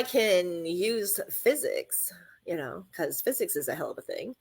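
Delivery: hushed whisper, like sharing a secret. Real, not acted. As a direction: lean in and whisper it. Conspiratorial aside about physics.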